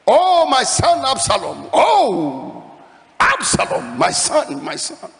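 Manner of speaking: anguished, loud and slow grief-stricken call; a father keening for his dead son; loud wailing cry. A narrator's reading. King David wailing for his son Absalom, loud grieving cry. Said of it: "the king cried with a loud voice".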